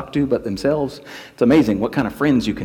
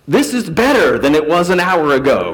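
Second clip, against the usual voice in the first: amazed; 3 semitones higher, 6 dB louder than usual. Acted. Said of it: "one who's standing there going".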